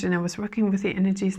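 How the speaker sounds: real voice cracking into a whisper, quick; voice going. Real, not acted. Telling viewers about the stone circle, voice giving out. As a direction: let the voice fail to a rasp. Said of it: "you may hear that my voice is going".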